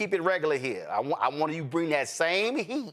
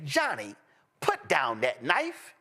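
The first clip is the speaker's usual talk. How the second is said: calm white person; 2 semitones lower, slower than usual. Retold or imitated. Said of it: "a white person would say".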